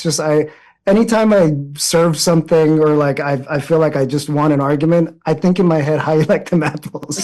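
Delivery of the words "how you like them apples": put-on thick Boston accent. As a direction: say it like a Boston tough guy. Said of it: "With a thick Boston accent".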